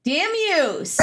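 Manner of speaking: high squeaky sped-up voice; chipmunk voice. Pretend. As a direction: talk like a cartoon chipmunk. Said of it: "Where's my chipmunk voice?".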